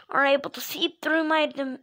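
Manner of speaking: breaking off mid-word on "dim-"; verbal slip. Acted. Mario explains the dimension theory, slipping up on "dim-". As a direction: slip up and cut "dim-" short. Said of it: "Your voice cracked for a second".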